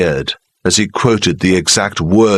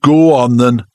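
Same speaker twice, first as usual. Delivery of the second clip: sulkily; 5 semitones higher, 4 dB louder than usual. Acted. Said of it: "Charlie said sulkily".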